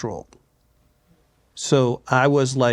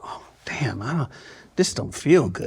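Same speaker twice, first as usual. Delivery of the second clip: muttered aside; 2 semitones lower than usual. Retold or imitated. Recalling a toxic set to the interviewer, whispering. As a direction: say it to yourself, barely voiced. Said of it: "where you just go".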